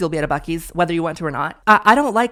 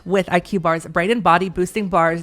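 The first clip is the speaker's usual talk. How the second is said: upbeat podcast ad read; sponsor ad read. Acted. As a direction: sell the snack bar like a host ad.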